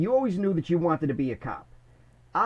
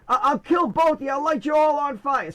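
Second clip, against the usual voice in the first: mock threat; 9 semitones higher, 3 dB louder than usual. Tommy threatening both.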